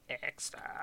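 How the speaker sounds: hushed, stretched robot-monster menace; Dalek catchphrase. Acted. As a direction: draw out each syllable as a Dalek.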